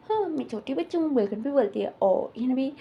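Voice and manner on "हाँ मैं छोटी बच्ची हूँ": put-on high, coy childish reply; a teasing childlike voice pitched high; playful little girl. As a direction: play along as a small girl. Madam playfully plays a little girl.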